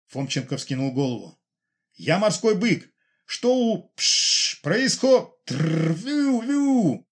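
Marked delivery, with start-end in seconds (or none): 1.9-7.1 high voice cut by mock static noises; radio breaking up. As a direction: break up like a failing signal. (голос в рации тонет в помехах)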